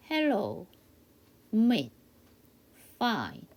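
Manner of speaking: "hello, meet, fine" as separate practice words with falling ends; teacher leading a drill on "hello, meet, fine"; repeat-after-me model. Shown as a demonstration. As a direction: model each word alone, leaving room to repeat. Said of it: "저랑 같이 한번 연습해봐요".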